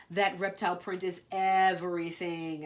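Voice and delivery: loud, proud announcement; grand announcement. Acted. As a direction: announce it to the room. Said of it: "announced" by the speaker.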